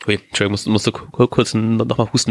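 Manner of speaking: just choked, voice still catching; choking on a drink. Real, not acted. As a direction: talk right after swallowing wrong. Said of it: "Ich hab mich grad verschluckt".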